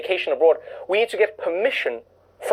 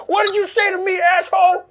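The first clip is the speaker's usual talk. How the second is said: higher, hammed-up aggressive challenge; mock angry passenger; 11 semitones higher than usual. Comedian repeating the brawler's line, mock angry high voice. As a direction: squeak out the fake threat once more. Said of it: "I just said".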